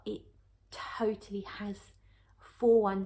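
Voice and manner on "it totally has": whispered. Real, not acted. Confides a signature note.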